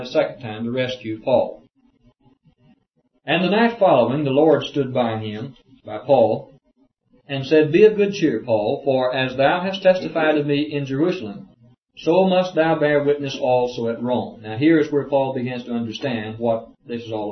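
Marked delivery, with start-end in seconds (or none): 3.2-6.5 declaimed verse, lifted at the start; formal reading-aloud voice; scripture reading. Acted. 7.3-14.4 raised, declaimed Bible reading; formal scripture-reading voice. Acted. Reads scripture aloud.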